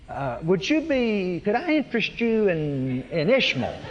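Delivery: lightly voiced Abraham, awkwardly changing the subject; a hint of a sheepish patriarch offering God an alternative. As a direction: sidestep God's promise with a nervous sales pitch, half laughing. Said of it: "What he means is".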